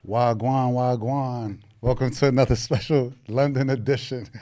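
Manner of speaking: playful put-on London street accent, lightly done; fake Top Boy accent. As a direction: greet the viewers in a mock South London roadman accent. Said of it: "my fake Top Boy accent".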